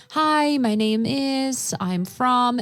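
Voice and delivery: slow beginner phrases. Retold or imitated. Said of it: "I know how to say".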